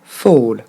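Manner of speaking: "Fall" as fol, low and falling; discreet English ending. Shown as a demonstration. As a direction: say "Fall" with an open vowel and dark l. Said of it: "en moins appuyé, en plus discret".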